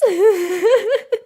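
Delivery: high, loose laugh; real high giggling. Real, not acted. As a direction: crack up in disbelief. Overwhelmed by the story reveal.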